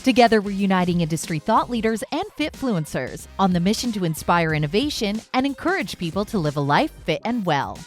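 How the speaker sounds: polished, lively host intro over music; podcast intro read. Acted. Host introduces guest and show to listeners, announcer read. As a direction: read it like a show opener with punched key words.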